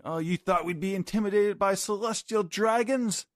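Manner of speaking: defiant shout. Retold or imitated. Crew taunts Gunko about celestial dragons, in a high defiant shout. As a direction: taunt the enemy. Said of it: "they're shouting".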